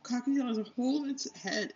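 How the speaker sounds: high, mock alarmed squeal; freaked out. Lady worried about the hole in its head, mock alarmed. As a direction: play the panicking owner lightly. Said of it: "She's like".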